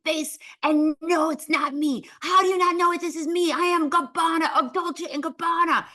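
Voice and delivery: high, indignant rant in bad Italian accent; hammed-up Italian outrage, pitched high; screaming Italian designer. Designer berates host for not knowing him, mock screaming. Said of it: "screaming, going".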